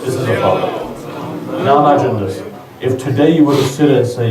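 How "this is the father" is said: slow breathy whisper of the line; hushed and slow, almost breathless. Acted. Repeats the line, then drops it.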